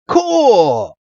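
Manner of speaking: high, offhand Cool; casual cool. Retold or imitated. Ash answers the nurse with an offhand high Cool. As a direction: toss it off like it's nothing. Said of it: "Ash is like".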